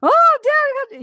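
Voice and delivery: imitating a high, loud emotional cry; a retold cry, half laughing, half sobbing. Daughter on the phone to her dad, overwhelmed, high and loud. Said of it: "couldn't tell if she was laughing or crying".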